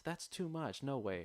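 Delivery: high-pitched disbelieving protest; mock indignant customer. Mocking a customer who refuses the bag count. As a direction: squeak out the outrage in disbelief.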